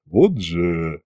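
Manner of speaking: low, sinking mutter; dismayed sigh. A narrator's reading. Officer realises his predicament, dismayed sigh. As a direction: sigh it out, defeated. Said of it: "вздохнул Макс".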